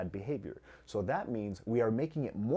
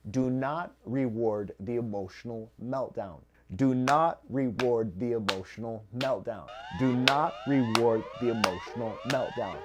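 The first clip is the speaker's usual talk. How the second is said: louder each time, stress on not; emphatic repeat; 7 dB louder than usual. Shown as a demonstration. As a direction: drill the rule in, getting louder. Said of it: "I will repeat".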